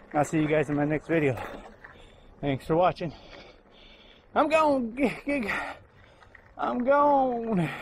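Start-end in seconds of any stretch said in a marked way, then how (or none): 4.3-7.7 playful sign-off. Real, not acted. Sign-off catchphrase.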